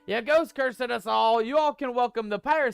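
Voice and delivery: mock-panicked pirate captain scolding the crew; lightly voiced pirate scolding a first mate over trinkets; hammy pirate rant. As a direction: ham up a cursed pirate, "matey" tacked on. Pirate persona blames ghost curse.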